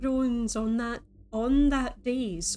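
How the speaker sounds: on that dais, ON drawn out slowly; stress on ON. Shown as a demonstration. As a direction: lean on the word on, slow. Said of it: "On is emphasized".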